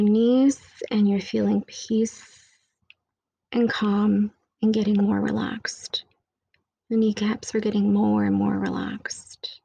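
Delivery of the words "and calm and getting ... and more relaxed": whisper. Acted. Whispered meditation lines.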